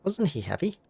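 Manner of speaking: a doting auntie gushing over her cat; fussing cat lady. Acted. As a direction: coo over the lost cat. Voices cat owner Layla.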